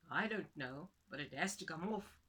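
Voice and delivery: a fretting husband; worried husband. Acted. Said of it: "said the man".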